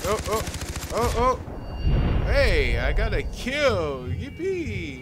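rising excited oh oh into a cheer. Real, not acted. Gamer cheering his first kill, excited.

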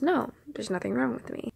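soft, straightforward no, falling at the end; response as intended. Retold or imitated. Friend's answer as it was meant, plainly reassuring. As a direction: give a simple, quiet, settled denial. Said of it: "response that I was supposed to hear".

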